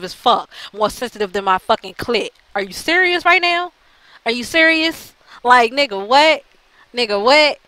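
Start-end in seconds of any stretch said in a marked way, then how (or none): 2.5-7.6 high-pitched exasperated disbelief; incredulous. Real, not acted. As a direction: question them in real, high-voiced disbelief. Ranting in disbelief at critics.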